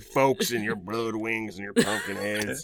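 put-on cranky old man. Old man bit continues.

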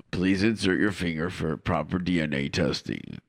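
a deep automated check-in voice; airport announcer. Pretend. Mock airport machine voice.

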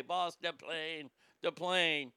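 Tattoo impression. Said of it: "God rest Hervé Villechaise's soul".

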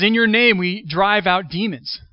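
claiming credit eagerly; proud claim. Retold or imitated. Quoting followers boasting.

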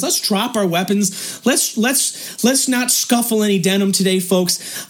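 low, calm and unhurried; a lightly voiced calm diplomat. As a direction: talk them down calmly. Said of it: "he's all calm".

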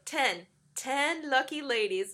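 slow, lightly hammed-up self-assurance; Kenny. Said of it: "he's so confident in himself".

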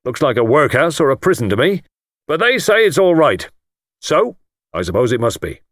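self-made lord showing off to the guest; triumphant. Acted. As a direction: finish with a swelling flourish. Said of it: "wound up triumphantly".

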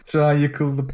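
laughing through mock despair; nervous laugh. Real, not acted. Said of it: "Ben sinirden gülüyorum yani".

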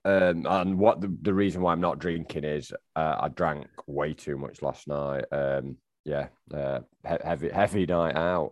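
tired and hungover. Real, not acted. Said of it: "I'm very, very tired today".

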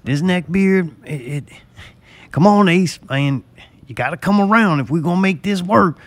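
lightly voiced neck-beard Jack; a hint of a proud redneck brother; mock pep talk to his brother; Jack impression. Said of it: "I was doing a good imitation of him".

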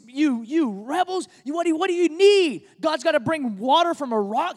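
fed-up leader berating a crowd; exasperated rebuke. Retold or imitated. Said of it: "he calls them rebels".

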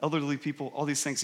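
low, soft mumbled list; mumbling under breath. Retold or imitated. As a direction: act out someone muttering excuses. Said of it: "kind of mumbles under his breath".

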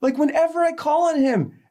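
high, loud emotional outpouring; overwhelmed realization. Retold or imitated. Telling an elderly stranger on a plane, high and overwhelmed. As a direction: blurt it out through tears of joy.

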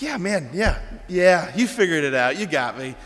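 lightly voiced laid-back dude; mock casual Jesus. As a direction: play at conceding casually, dropping at the end. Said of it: "he just doesn't speak like that".

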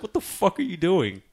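high, mock panicked shout; panicked yell. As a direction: play a frantic character yelling. Mimicking panicked movie characters.

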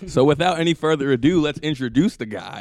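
lightly hammed-up host intro; show announcer. Podcast host introducing the guest, mock announcer.

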